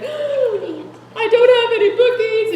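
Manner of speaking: high-pitched, drawn-out panicked wail; hammed-up panic, stretching the words way up high; mock freak-out. Consultant running into the office with no bookings, mock freak-out. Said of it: "and she's freaking out".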